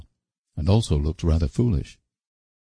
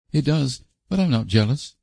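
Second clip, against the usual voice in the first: calm; 8 semitones higher than usual. A narrator's reading. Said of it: "said Stella calmly".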